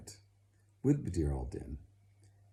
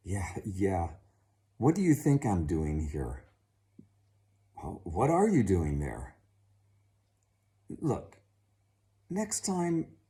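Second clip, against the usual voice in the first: annoyed hunchback; 6 dB louder than usual. Acted. Hunchback snaps back at father.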